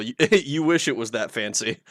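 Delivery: ordinary delivery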